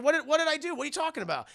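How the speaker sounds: high-pitched protest, playing innocent; mock defensive protest. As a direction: act caught out, voice jumping up. Accused character protests in retold row.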